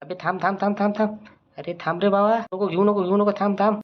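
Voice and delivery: high, rapid-fire pleas; frantic stopping. Acted. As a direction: beg them to stop right now. Frantic to stop friend lifting bag.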